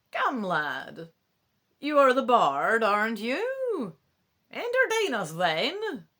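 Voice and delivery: loud, high, drawn-out summons; calling out. Acted. Old man summoning the young bard before the court, calling out loudly. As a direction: call the bard up in front of everyone.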